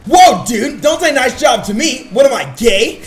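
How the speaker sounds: mock-offended bro.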